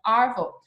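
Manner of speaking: ARVO as "ah-vo" with a silent R; R dropped. Shown as a demonstration. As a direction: demonstrate ARVO without its R, Australian style. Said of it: "they don't say the R".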